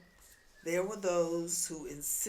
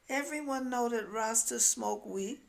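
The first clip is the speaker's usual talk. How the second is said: louder, higher, sure of herself; insistent claim; 6 semitones higher, 5 dB louder than usual. Retold or imitated. Woman telling the narrator all Rastas smoke weed, loud and certain. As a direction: state it as plain fact.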